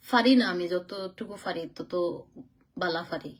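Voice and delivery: slow, careful Sylheti dialect; Sylheti accent. Shown as a demonstration. Telling her live viewers she speaks Sylheti, in a Sylheti accent. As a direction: show off her bit of Sylheti, slowly. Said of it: "সবার সাথে সিলেটি মাত মাতি".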